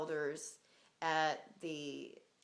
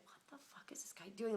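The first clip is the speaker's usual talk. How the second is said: whispered disbelief; 3 semitones higher, 7 dB quieter than usual. Retold or imitated. Shocked by his phone questions.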